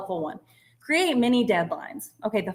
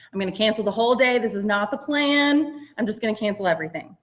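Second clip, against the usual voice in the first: frustrated. Acted. Voicing someone whose planned day fell apart, mildly frustrated. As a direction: act out a mild fed-up outburst. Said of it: "and you're frustrated".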